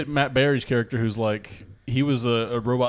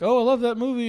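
high-pitched gushing fan quote; excited fan; 11 semitones higher, 3 dB louder than usual. Retold or imitated. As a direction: gush like an excited passerby. Acting an admiring passerby.

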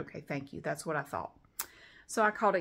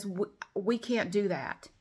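mock slow refusal; slower than usual. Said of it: "everybody I talk to says".

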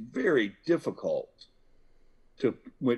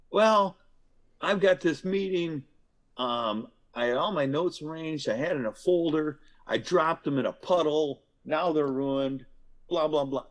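upset venting; 4 semitones higher than usual. Acted. Voicing upset person explaining.

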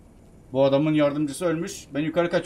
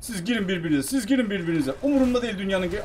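gleeful; 4 semitones higher, 3 dB louder than usual. Real, not acted. Gleefully leaving enemies to fight.

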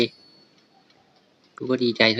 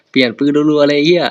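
loud, higher, frantic yell; excited shout; 4 semitones higher, 9 dB louder than usual. Real, not acted. Gamer yells while swapping guns in a fight, frantic shout. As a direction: yell it in the heat of the firefight.

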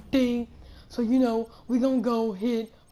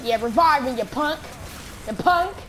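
raised, pitched-up insult; demanding yell; 4 semitones higher, 4 dB louder than usual. Real, not acted. Downed gamer telling a punk to revive him, demanding yell. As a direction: call out sharply for a revive.

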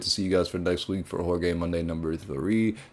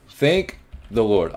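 slow, drawn-out sigh of thanks; slow relief; slower than usual. Real, not acted. Player surviving the night shift, slow grateful sigh. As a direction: savor the relief, slowly.

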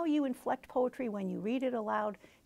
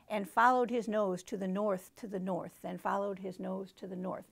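sing-song read of the refrain; poem reading; 2 semitones lower than usual. Shown as a demonstration. Teacher reading the refrain to the class, sing-song. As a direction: lilt the repeated line. Reads stanza ending aloud.

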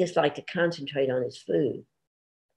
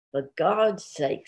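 exasperated; slower than usual. Acted. Cletus exasperated by wife's request.

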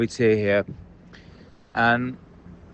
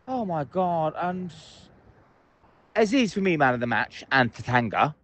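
ordinary talk

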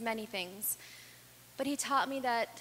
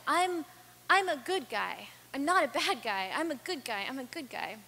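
put-on seven-year-old boy; 3 semitones higher, 4 dB louder than usual. Samir insisting to the speaker he is a good guy, childlike plea that starts higher and louder and fades. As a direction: plead like a hurt little boy that he is good.

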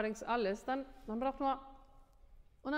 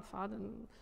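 Faden said softer, on a thin stream of air; thin thread of breath; 6 dB quieter than usual. Shown as a demonstration. Teacher showing the student a thin thread of breath, softer. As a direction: let Faden float out soft and thin. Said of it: "sehr dünner".

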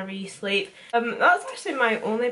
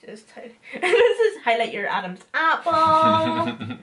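high, slow giggling speech; laughing; 7 semitones higher, slower than usual. Real, not acted. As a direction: talk through giggles. Laughing while highlighting neck.

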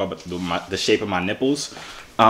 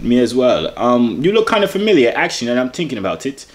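badly faked German accent, raised pitch; fake German accent; 2 semitones higher than usual. Prankster caught out by a real German, fake German accent. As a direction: keep up a phony German accent. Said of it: "doesn't sound like German accent".

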